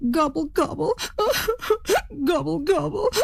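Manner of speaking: high gobbles with a sob between; crying turkey gobble. Acted. Big bird breaks down, gobbling and sobbing. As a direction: gobble through tears. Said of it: "started to cry".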